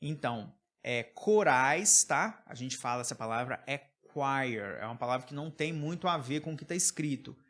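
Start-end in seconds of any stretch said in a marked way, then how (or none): 4.1-4.8 "choir" said like "kwire"; pronunciation demo. Shown as a demonstration. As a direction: say choir with a kw start, falling. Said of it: "Memoriza a pronúncia".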